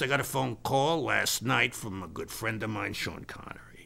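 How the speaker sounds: hushed, breathy name drop; whispered. Real, not acted. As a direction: whisper it confidentially. Dropping a name confidentially.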